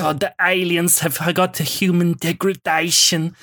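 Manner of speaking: lightly done Werner Herzog impression, a little hoarse and German, oddly strident on aliens; a mild mock Herzog, German-tinged and earnest. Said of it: "go a bit hoarse and a little bit German".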